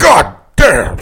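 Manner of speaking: loud gruff Nixon exclamation; Nixon impression. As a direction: bark it like Nixon. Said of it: "Can you say goddamn one more time? Is Nixon".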